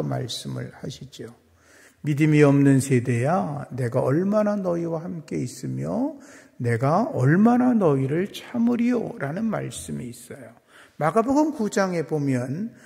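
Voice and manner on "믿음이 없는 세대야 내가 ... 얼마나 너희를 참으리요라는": "믿음이" stressed with a falling tune, a restrained reproach; first telling of "믿음이 없는 세대야", held back; mild rebuke. Acted. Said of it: "왜 너희가 믿음이 없냐".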